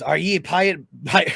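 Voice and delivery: lightly voiced pirate; mild pirate twang. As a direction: slip into a hint of pirate. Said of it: "I'm switching into pirate voices".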